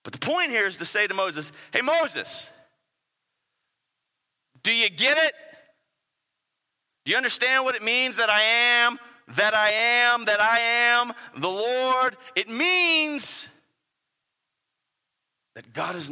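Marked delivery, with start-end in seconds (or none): 1.7-12.2 God's voice, raised and slowed at the end; voicing God. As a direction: speak as the Lord pressing Moses. Preacher voicing God to Moses.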